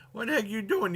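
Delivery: high-pitched acted protest; mock outrage. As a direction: act out an alarmed objection. Acting out alarmed man in retelling.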